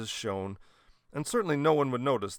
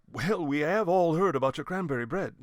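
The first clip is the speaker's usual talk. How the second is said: chuckled; 5 semitones higher, 5 dB louder than usual. A narrator's reading. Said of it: "chuckled Mister Horace".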